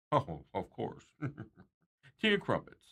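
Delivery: a joking, hammed-up bad British accent; playful put-on British accent. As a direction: toss off "Tea and crumpets" in a mock British accent. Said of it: "my bad British accent".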